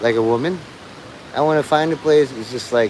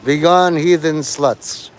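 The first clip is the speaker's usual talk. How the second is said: mock preacher; 2 semitones higher, slower than usual. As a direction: banish them like a fake holy man. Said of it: "and just like, you know".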